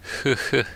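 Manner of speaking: short, high giggle; a brief airy "hoo-hoo" laugh; light giggle. Acted. Yuri's giggle in the game script.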